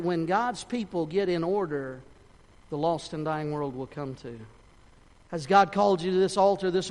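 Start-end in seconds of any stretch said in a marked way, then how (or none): none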